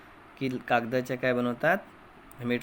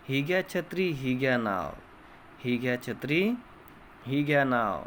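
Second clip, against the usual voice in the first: put-on sing-song chant, line by line, for children to repeat; poem recitation. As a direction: recite the rhyme with a lilting classroom rhythm. Teacher recites poem with class.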